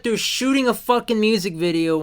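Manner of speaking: voice kinda gone. Real, not acted. Co-host after a late video shoot, voice nearly gone. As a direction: talk through a voice that's going. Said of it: "My voice is kinda gone".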